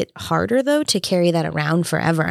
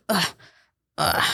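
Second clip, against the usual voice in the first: imitating discomfort groans; 3 dB quieter than usual. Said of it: "she would make these noises".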